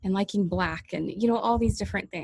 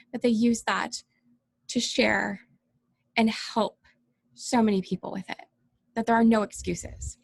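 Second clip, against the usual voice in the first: real tears welling up, halting between phrases; teary-eyed; 2 semitones higher than usual. Real, not acted. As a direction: push on through rising tears, pausing often. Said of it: "you're not supposed to get teary-eyed".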